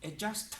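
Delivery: "Adjust" with a clearly released final T, pitch lifting; final T sounded. Shown as a demonstration. Teacher showing learners how to enunciate, final T sounded. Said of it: "fond of elongating the final consonant".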